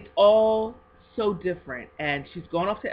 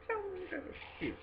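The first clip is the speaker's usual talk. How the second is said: laughing; 14 semitones higher, 12 dB quieter than usual. Real, not acted. Unwrapping cute gift.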